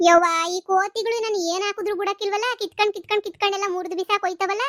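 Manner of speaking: exasperated complaint. Acted. Acted complaint about raiding monkeys.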